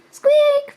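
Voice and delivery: startled little squeak; high squeak. Acted. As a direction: squeak instead of a roar. Dinosaur tries to roar.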